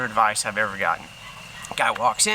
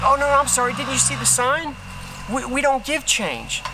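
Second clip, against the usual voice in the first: mock apologetic cashier; 8 semitones higher than usual. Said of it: "The guy's like".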